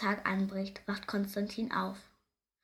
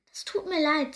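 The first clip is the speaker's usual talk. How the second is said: higher, louder, mildly sympathetic; friendly sparrow; 7 semitones higher, 6 dB louder than usual. A narrator's reading. Sparrow consoling cold baby hare, gently voiced friendliness. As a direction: offer friendly sympathy in a raised voice. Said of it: "sagt der Spatz freundlich".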